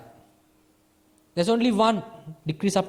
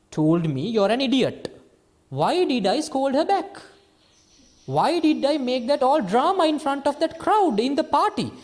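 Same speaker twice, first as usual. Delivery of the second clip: rising, louder, higher indignant self-talk; agitated self-questioning; 7 semitones higher, 4 dB louder than usual. Retold or imitated. Man replays being called idiot at a party, agitated and louder. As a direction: replay the insult getting worked up. Acted inner reflection after party insult.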